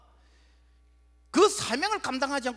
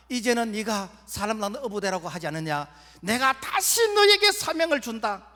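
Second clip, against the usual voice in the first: Jesus' voice; 8 semitones higher, 4 dB louder than usual. Acted. Jesus voiced reminding Peter.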